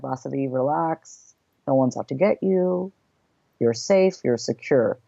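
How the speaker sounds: a lightly voiced calm reassurance. Inner calm voice reassuring her, a hint of soothing. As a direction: soothe herself gently, barely changed from her own voice. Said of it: "the voice of calm".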